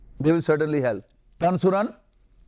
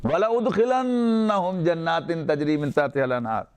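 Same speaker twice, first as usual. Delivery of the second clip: Quran recitation; much faster than usual. Shown as a demonstration. Teacher recites a Quran verse to show double noon, chanted quickly. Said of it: "the other with double noon".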